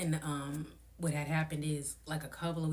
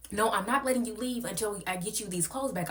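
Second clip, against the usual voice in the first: mocking the host; 5 semitones higher than usual. Voicing the host.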